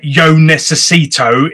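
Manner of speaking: put-on slow Spanish in an English accent; a Brit mouthing Spanish carefully. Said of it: "in my English accent".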